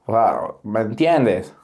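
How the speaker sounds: imitated fresa classmate. Classmate explaining herself to the teacher, lightly imitated fresa. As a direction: imitate a student fumbling for Spanish, slightly low. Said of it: "Y le, le dijo eso mismo".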